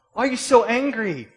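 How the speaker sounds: shouted confrontation. Acted. Preacher demanding answers of the angry person, shouting. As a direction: yell the question in mock exasperation. Repeats question as acted confrontation.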